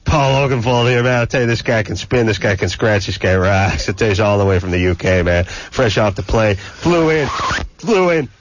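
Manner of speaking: lightly voiced country radio jock, pumping up the guest; a hint of a hokey hype-man hosting; hammed-up good ol' boy DJ. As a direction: oversell the guest like a small-town DJ, calling everyone boy. Hyped radio host bit.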